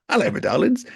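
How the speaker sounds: a hint of a camp host; camp catchphrase. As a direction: greet the fans theatrically. Character catchphrase voice.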